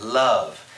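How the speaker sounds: "love" with a long, savoured vowel; drawn-out vowel. Shown as a demonstration. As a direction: say "love" slowly, lingering on the vowel. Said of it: "Try the word love. Say that".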